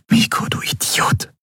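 tonloses, leises Flüstern; flüster es kaum hörbar. Acted. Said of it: "flüsterte sie". (tonlos geflüstert)

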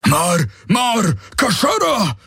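high bellowed warning; alarmed shout. A narrator's reading.

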